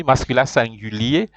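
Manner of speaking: "masculin singulier" said in French, maskyla sanggylie; model for repeating. Shown as a demonstration. Teacher to students, say it after me. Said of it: "Repeat after me".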